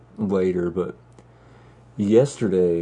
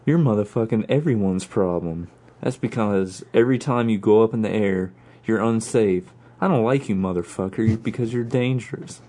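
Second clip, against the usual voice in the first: lightly acted sweary scolding; a hint of indignant movie tough guy; Samuel L. Jackson. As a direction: tell off a reckless pilot, loosely in character. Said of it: "Iceman and Maverick as Samuel L. Jackson".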